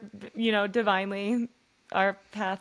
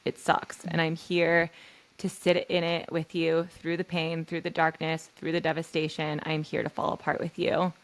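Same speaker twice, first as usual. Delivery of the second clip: reassuring; 2 semitones lower than usual. Pretend. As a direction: hold her pain gently and promise hope. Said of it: "And I would say".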